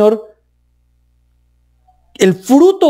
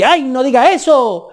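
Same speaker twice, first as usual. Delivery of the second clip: scolding legalist; 4 semitones higher than usual. Retold or imitated. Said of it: "le dicen a uno".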